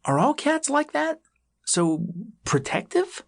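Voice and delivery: put-on young possum voice. A narrator's reading. Possum voice high.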